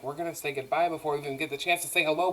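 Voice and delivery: fast, hushed inner monologue; inner thought. Retold or imitated. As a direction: race quietly through a private thought. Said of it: "in her head, she's like".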